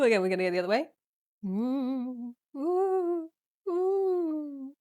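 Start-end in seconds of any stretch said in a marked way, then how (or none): 1.5-4.7 high, drawn-out ghostly oohs; playful ghost wail. Pretend. Yoga teacher swaying like a ghost, ghostly oohs. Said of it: "thinking like a ghost".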